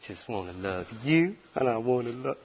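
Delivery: a hint of a soft, syrupy voice mocking a gentle Jesus; mock the sugary version, softly; mocking sweet Jesus. Preacher mocking a sweet, soft Jesus voice. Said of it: "nice, sweet little Jesus".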